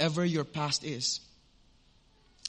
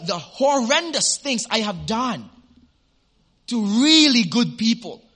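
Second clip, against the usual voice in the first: anguished protest; 5 semitones higher, 7 dB louder than usual. Retold or imitated. Retold woman's anguished protest.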